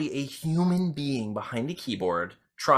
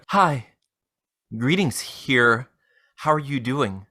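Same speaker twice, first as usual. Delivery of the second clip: scammer read; 3 semitones lower, slower than usual. Acted. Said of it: "I'm going to be reading Jade Willis".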